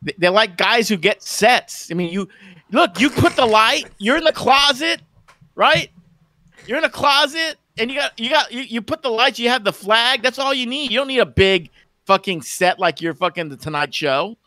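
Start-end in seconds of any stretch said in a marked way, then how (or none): 2.7-14.4 scornful rant. Acted. Mocking streamers with closet sets.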